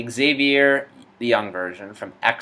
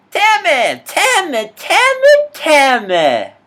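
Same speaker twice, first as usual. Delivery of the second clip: much higher, louder frantic yelling; yelling Tammy; 13 dB louder, slower than usual. Acted. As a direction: scream her name over and over. Repeated yelling of a name.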